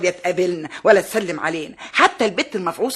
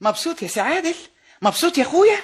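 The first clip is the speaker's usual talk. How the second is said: bitter sarcasm; 10 semitones higher than usual. Acted. Sarcastic jab at son.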